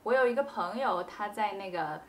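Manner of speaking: 轻声自然地用那个; relaxed filler demo. Shown as a demonstration. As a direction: drop 那个 in casually while thinking. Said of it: "you can say 那个".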